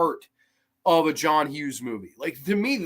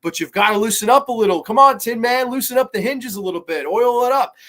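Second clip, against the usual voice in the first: hammed-up Val Kilmer; 6 semitones higher, 6 dB louder than usual. Val Kilmer coaxing kid, hammed up.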